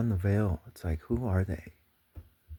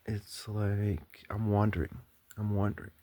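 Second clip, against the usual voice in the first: slow wandering speech. Shown as a demonstration. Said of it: "listen to the way I speak right now".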